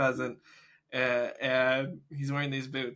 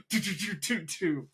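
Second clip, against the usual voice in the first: imitated gunfire; 4 semitones higher than usual. Imitates gunfire at fleeing birds.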